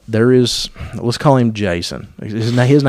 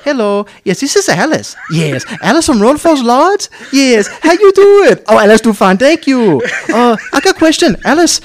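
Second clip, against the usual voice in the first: mock broken English; 12 semitones higher, 5 dB louder than usual. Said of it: "And Alice says".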